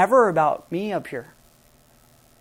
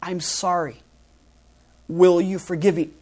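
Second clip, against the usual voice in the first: sincere apology; 3 semitones lower than usual. Shown as a demonstration. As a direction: lay down your pride and simply ask forgiveness.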